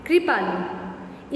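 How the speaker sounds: कृपालु spoken very slowly, the ऋ sound stretched out; drawn-out demo word. Shown as a demonstration. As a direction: draw कृपालु out so the class hears every sound. Teacher demonstrates ऋ sound.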